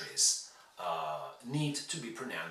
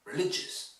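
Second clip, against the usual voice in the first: "Religious" with LIG standing out; stress on lig; 3 semitones higher than usual. Shown as a demonstration. Teacher models the key syllable, "Religious" stressed on LIG. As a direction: let only LIG really be heard in "Religious". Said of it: "The only syllable you really need to hear is lig".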